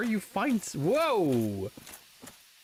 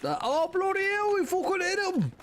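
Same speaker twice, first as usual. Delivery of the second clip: startled outburst; 13 semitones higher than usual. Real, not acted. Startled while playing a game.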